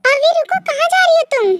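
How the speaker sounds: high, sharp, angry question; angry demand. Acted. V confronts Jongsuk with the girl, angry. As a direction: stop him and demand an answer. Stopping fiancé who is leaving.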